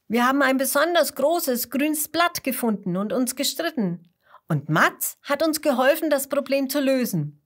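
put-on excited children telling their adventure. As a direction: tumble it out excitedly. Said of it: "erzählen Bernd und Bertha aufgeregt".

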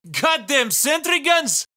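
slow furious yell; slow cursing shout; angry shout. Acted.

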